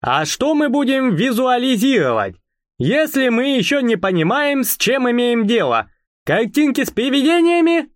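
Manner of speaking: high-pitched voice with burred throaty R; картавый голос. Acted. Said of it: "сказал он своим картавым голосом". (высоким голосом, картавя на «р»)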